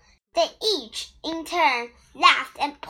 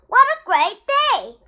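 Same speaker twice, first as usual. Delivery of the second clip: higher, louder gleeful cheer; happy spider cheer; rejoicing; 7 semitones higher, 5 dB louder than usual. A narrator's reading. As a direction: crow with delight at the escape. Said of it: "Anansi rejoiced".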